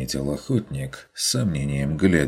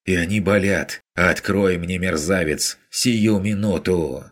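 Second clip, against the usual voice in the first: angry demand; 3 semitones higher than usual. Acted. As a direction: scold the man through the door. Woman berates him through door. (гневное требование, выше и громче)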